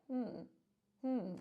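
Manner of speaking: soft musing hmms, eyeing the snack; a quiet tempted hum, twice. Retold or imitated. Imitating everyone eyeing the cupboard with tempted hums. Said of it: "we're gonna be like".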